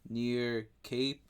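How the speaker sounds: ordinary talk, nothing marked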